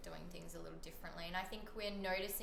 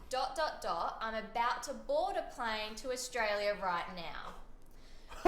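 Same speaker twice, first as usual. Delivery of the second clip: eager, louder retelling of a message; excited quote; 5 dB louder, slower than usual. Retold or imitated. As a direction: read it out with bubbly energy.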